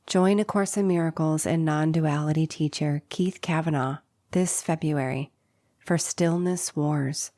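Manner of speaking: measured announcement with the list items set apart; scripted promo read. Acted. Host invites listeners to Stillness Wars, scripted promo read.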